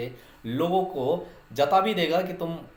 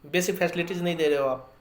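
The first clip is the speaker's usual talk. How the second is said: blunt complaint; 2 semitones higher than usual. Pretend. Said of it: "सीधा मुंह पे बोल देगा".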